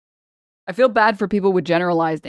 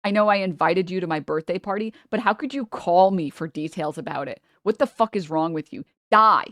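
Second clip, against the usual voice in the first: imagined angry friend; 4 dB louder than usual. Retold or imitated. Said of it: "they're gonna be like".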